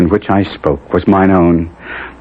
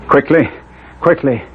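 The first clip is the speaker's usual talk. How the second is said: higher, pressing repetition; urgent plea; 7 semitones higher than usual. Acted. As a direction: hurry her along.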